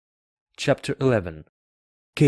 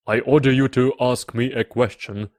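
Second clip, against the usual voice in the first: loud royal order; commanding king; 3 semitones higher, 6 dB louder than usual. A narrator's reading. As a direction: command it with raised voice. King gives order, louder.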